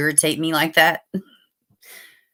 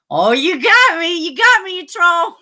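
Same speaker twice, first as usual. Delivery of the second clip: laughing at being trolled; 11 semitones higher, 5 dB louder than usual. Real, not acted. Viewer teases him.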